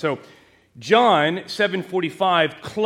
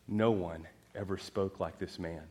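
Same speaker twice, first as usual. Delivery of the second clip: much lower, much softer, awestruck; hushed awe; 10 semitones lower, 12 dB quieter than usual. Acted. Officers answer the Pharisees in hushed awe. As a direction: say it quietly, struck by wonder.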